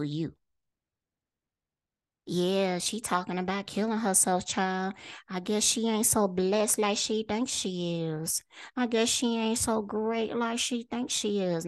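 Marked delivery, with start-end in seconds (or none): 2.3-11.7 lightly voiced gossip, a bit softer, mocking; a touch of catty church-lady gossip; gossiping neighbor. Gossiping people mocking her suicidal talk, lightly voiced catty gossip. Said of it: "they project how they feel about themselves".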